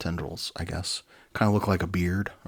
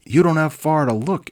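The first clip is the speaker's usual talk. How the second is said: interrupting; 9 semitones higher, 10 dB louder than usual. Acted. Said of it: "interrupted Liquidator".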